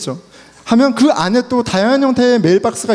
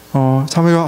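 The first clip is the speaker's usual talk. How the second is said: ordinary delivery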